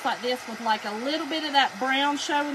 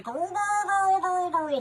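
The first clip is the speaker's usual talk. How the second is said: put-on girls run together in one blurred stream; quick, slurred string of girls; real-fast girl noise; 5 semitones higher, slower than usual. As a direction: demonstrate the fast girl trick mid-sentence. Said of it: "all it is is saying 'girl' real fast".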